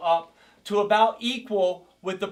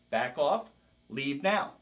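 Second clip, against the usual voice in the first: broken record; 5 semitones lower, 4 dB quieter, slower than usual. Shown as a demonstration. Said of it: "I call it the broken record".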